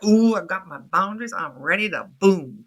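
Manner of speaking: a hint of a cocky young adult; lightly voiced eager young woman listing rules; lightly mocking confident young adult. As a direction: tease the boundary-proud generation lightly. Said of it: "they're like".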